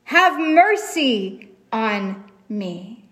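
slow, drawn-out plea, not shouted; restrained retelling of a cry for mercy; retold plea. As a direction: stretch each word of the retold cry. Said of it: "He cries out".

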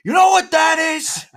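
furious high coach's shout at the team; coach yelling. Retold or imitated. Coach yelling at his demoralized team after a loss, furious shout. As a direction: bellow it like a coach mocking his losing team. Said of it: "puts two little dots in between the legs and goes".

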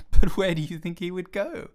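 put-on a boy amused at the man's worry; laughing question. A narrator's reading. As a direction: ask through a laugh. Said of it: "broke into another peal of laughter".

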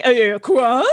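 put-on a loose Italian accent with a French "quoi"; hotel clerk in a jokey Italian accent; mock Italian accent. Hotel clerk confused, in a mock Italian accent. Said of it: "That's my Italian accent".

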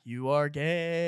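slow, eerie subliminal whisper-voice; ghostly voice. Pretend. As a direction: intone it like a spooky ghost. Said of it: "Why do I sound like a ghost?".

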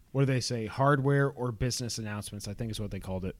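talking around a mouthful of ice; mouth full. Real, not acted. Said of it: "Sorry, I've got ice in my mouth".

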